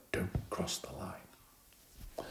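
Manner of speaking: slow, breathy whisper. A narrator's reading. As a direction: breathe it out, drawn-out and secret. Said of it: "Miranda whispered".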